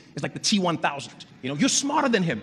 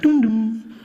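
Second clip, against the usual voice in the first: airport chime; 3 semitones higher, 3 dB louder than usual. Retold or imitated. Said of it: "she'll come and be like".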